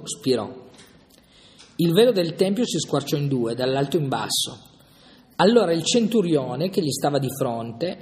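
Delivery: measured, solemn reading of the Passion; scripture reading. Acted. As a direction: read the Gospel aloud to the group, steady and grave. Reads Gospel passage aloud.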